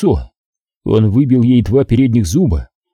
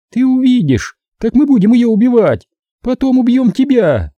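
higher, taunting woman's voice full of contempt; gloating female captor; 13 semitones higher than usual. A narrator's reading. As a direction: sneer it at the rich man, pitched up. Captor threatens. (злорадная похитительница, высоким голосом)

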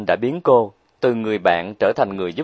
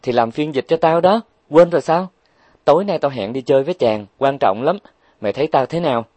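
giddy Huệ Linh; 5 semitones higher, 3 dB louder than usual. Acted. Huệ Linh excited before date.

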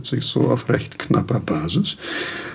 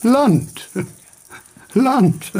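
high exclamation of wonder; excited cry; 7 semitones higher than usual. Acted. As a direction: call it out as if sighting a shore. Delirious Kant cries out.

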